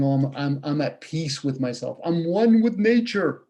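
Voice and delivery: slow, smug mock-serene voice. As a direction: parody a fake peaceful person, drawn out slowly. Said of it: "You put on a mask saying".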